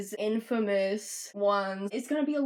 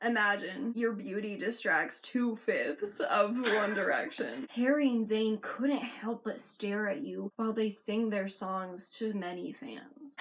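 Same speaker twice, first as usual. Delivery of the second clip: put-on British accent. Reading a fan imagine about a boy band, mock British accent. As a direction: read it aloud in an amateur British accent. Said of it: "I should read these in British accents".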